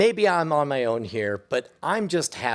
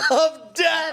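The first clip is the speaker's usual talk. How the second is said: dramatic echo; 12 semitones higher than usual. Real, not acted. Echoing the episode title to co-hosts, hammed-up. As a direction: ham up the title.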